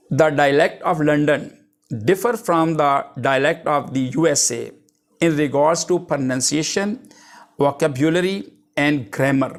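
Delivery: reading a definition out slowly, word by word; slow dictation. Acted. Teacher dictating a definition to the class, slow and deliberate. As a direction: dictate it so students can write it down.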